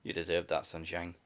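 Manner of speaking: disapproving dad, low-pitched; William Regal. Retold or imitated. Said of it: "Just like the disapproving dad".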